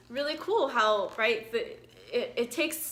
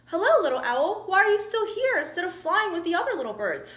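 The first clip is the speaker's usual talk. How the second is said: cheery turtle; 6 semitones higher, 4 dB louder than usual. Acted. Turtle greets owl.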